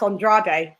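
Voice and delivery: Andrade as "on-DRAH-day"; correct pronunciation. Shown as a demonstration. Co-host correcting the boxer's name, Andrade as "on-DRAH-day". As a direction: Andrade with a final "day" syllable. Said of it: "it's actually pronounced".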